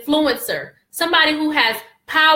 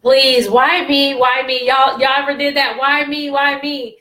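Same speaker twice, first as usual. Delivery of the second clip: retold pleading. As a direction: plead like a retold cry for help. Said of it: "I'm just praying and I'm like".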